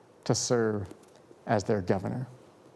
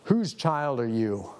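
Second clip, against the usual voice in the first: lightly voiced booming preacher, slow; a hint of a deep, imposing preacher, unhurried; 3 semitones lower than usual. Country preacher questions a frightened child, mildly deep booming voice. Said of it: "in that deep, booming voice".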